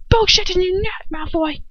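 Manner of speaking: high, loud furious yell; shout. Acted. Ron yelling at Malfoy, furious shout. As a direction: hurl it across the room. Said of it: "Ron shouts".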